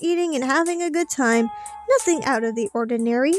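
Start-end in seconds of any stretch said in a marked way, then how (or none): 1.9-3.3 hollow, rushed reassurance; fake sincerity. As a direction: say it like you're covering something up. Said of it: "Wow, I sounded so fake".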